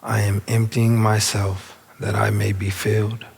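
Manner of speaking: unhurried meditation guide with long pauses; spacious, measured affirmation leading; guided meditation. Real, not acted. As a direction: guide them inward, phrase by phrase. Leads the affirmation.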